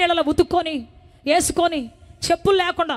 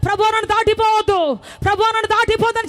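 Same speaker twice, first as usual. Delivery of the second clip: louder, higher tearful begging; begging prayer; 4 semitones higher, 5 dB louder than usual. Retold or imitated. Weeping woman begging God to stay, loud tearful plea. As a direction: beg God not to pass her by. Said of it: "రమ్మని బతిమలాడుకోవడం".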